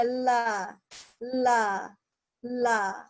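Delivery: "La" with the tongue tip sliding downward. Shown as a demonstration. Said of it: "dia dikebawahkan lidahnya".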